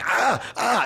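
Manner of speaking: high, short cries of pain; mock pained yelp. Man retelling waking up with a Charlie horse, mock pained yelps. Reenacting waking with leg cramp.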